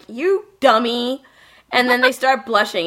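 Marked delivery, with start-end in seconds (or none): 0.1-1.2 slow drawn-out teasing; mock-scold him slowly; teasing dummy. Friend retelling the girls teasing Kohei, slow mock scold. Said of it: "they're like".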